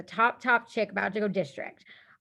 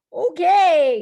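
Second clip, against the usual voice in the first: loud, higher pumped-up okay, bracing for the challenge; a big determined okay, much louder; psyched-up okay; 8 semitones higher, 11 dB louder than usual. Retold or imitated. Accepting the job offer, loud and psyched. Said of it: "And I was like".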